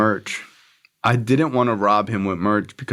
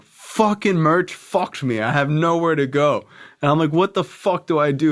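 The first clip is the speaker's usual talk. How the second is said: retold panic; 7 semitones higher than usual. Stranded, retelling his panic.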